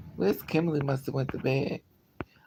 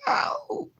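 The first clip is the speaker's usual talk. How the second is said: sudden high squeal "Ow!"; high yelp; 3 dB louder than usual. Real, not acted.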